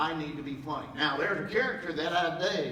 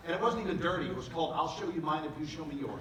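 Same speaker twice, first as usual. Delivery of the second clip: ordinary delivery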